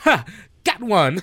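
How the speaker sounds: gleeful chuckle. Narrating a game scene, voice a distant young man; delighted chuckling young man. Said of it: "A delightful like chuckle from a young man".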